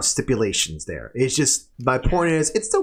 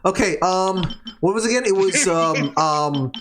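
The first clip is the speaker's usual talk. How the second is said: higher-pitched flustered scramble to remember; 7 semitones higher, 3 dB louder, much slower than usual. Real, not acted. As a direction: stall in a fluster while trying to recall. Panics trying to recall the order.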